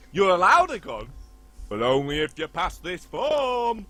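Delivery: loud, hammed-up proclamation; mock test official. Official giving blind applicant the ultimate test, mock grand. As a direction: announce the condition grandly and loudly.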